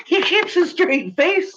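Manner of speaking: high, slow, squeezed out through laughter; giggling the words out; laughing. Real, not acted. Streamer marvelling at the rival, laughing helplessly.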